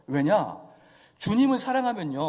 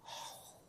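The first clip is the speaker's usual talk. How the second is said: soft sigh; 25 dB quieter, much slower than usual. Acted. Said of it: "눈물 뚝 뚫리면서".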